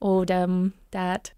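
"dem, dat" with D for TH; rural D for TH. Shown as a demonstration. Coach showing rural speech, D for TH. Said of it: "that D T H thing".

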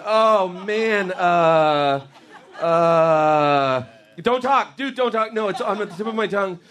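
mock stoner agony, begging silence to think; stoned straining.

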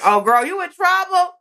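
high, sassy warning to herself; sassy self-talk. Retold or imitated. Sniffing cumin with covid, talking to herself sassily. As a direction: tease yourself, sassy. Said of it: "I was like".

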